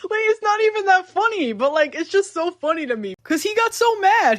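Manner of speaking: can barely get the words out for laughing; laughing while talking. Real, not acted. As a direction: talk through real giggles. Giggling at a funny scene.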